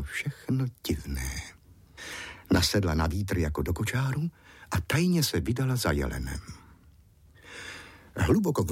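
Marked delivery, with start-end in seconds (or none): none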